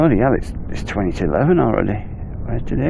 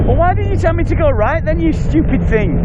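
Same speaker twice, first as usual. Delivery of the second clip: exasperated. Real, not acted. Scolding the navigation app.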